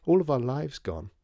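high, loud tearful lament; acted sobbing. A narrator's reading. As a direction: wail it out in despair.

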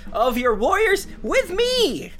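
rousing battle cry, building; rally the troops before battle; rallying war speech. Acted. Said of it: "like the before every war speech".

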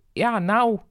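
croaky, breaking voice; voice cracking. Acted. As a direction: croak it out with a sore throat. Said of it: "kraakte Kavia".

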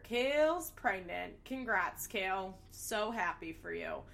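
dry, unimpressed Kale's pregnant; sarcastic deadpan. Shown as a demonstration. Host mocking the obvious news, dry sarcasm. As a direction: flatly repeat Kale's pregnant as no shock. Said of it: "what a shocker".

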